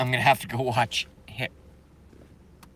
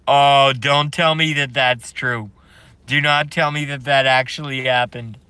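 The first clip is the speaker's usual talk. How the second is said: louder, incredulous plea; gleeful disbelief; 5 dB louder than usual. Real, not acted. Streamer reacting to chat's news, loud disbelief. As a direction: beg them to say it isn't true.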